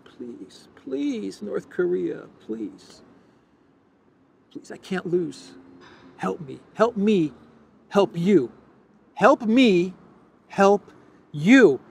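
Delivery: high, whiny pleading, hammed up; mock begging Putin. Pundit mocking Putin begging North Korea, in high whiny pleading. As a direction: beg like a desperate little dictator. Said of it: "Putin is begging".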